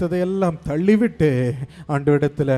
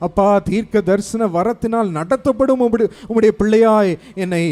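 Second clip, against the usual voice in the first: fervent voiced prayer; 5 semitones higher than usual. Pastor voices the believer's prayer to be lifted, ardent. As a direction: pray it for them with longing. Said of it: "என்று அர்ப்பணிக்க".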